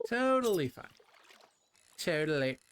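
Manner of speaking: high, loud totally fine; jokingly overstate it; emphatic mock insistence. Mock insistence on chicken cake.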